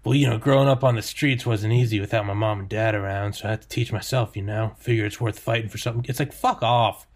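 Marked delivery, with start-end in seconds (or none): 0.0-6.0 lightly put-on British accent; game heroine in a light British accent; a hint of British accent, telling her backstory; mock British accent. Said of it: "she always has a British accent".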